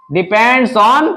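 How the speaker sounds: Depends on stretched out very slowly, on held; drawn out for students to write; slow dictation. Shown as a demonstration. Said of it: "किस पे डिपेंड है?". (धीरे-धीरे बोलकर लिखवाना)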